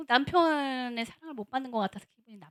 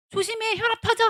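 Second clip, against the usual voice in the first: playful warning; 9 semitones higher, 3 dB louder than usual. Acted. Wife warning husband.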